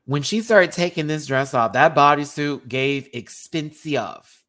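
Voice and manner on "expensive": "expensive" stretched out with an odd "-ee-uv" ending; drawn-out, affected "expensive"; affected pronunciation. Shown as a demonstration. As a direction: say "expensive" slowly as "ex-pen-see-uv". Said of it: "I don't even know why I'm saying it that way".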